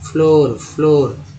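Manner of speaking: "फ्लोर" slowly, with a long oh vowel; slow teacher's repetition of "फ्लोर" with an oh sound; double-o as "oh". Shown as a demonstration. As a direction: draw out the oh in each "फ्लोर". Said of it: "ओ के रूप में फ्लोर".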